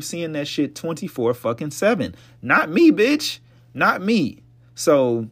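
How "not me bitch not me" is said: loud, high emphatic not me; loud sassy refusal. Real, not acted. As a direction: shout it out with sass. Emphatic refusal, louder and higher.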